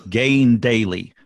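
slow, measured recitation; reading scripture aloud. Acted. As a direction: read each line slowly, like a text. Reads Tao Te Ching aloud.

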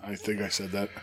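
hoarse, breathy near-whisper; raspy whisper. Real, not acted. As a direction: speak with a worn-out throat. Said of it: "How did you blow out your throat?".

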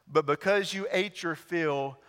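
quiet, low reading of Jesus' answer; soft scripture reading; softly read Jesus words. Acted. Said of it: "And Jesus answered them".

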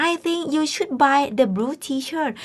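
very slow, every word spelled out for learners; teacher reading an example sentence very slowly; slow model sentence. Shown as a demonstration. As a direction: say it slowly so students can copy. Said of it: "teacher models the sentence slowly".

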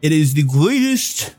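proud official, lightly played; lightly voiced official.

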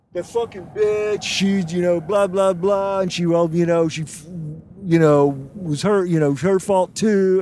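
bad impression of an angry comic; a weak mock Adam Richmond rant. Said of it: "Is that your Adam Richmond impression?".

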